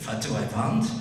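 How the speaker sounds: lightly imitated German-accented caller. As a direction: echo the question in a mock German accent. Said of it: "in a very heavy German accent".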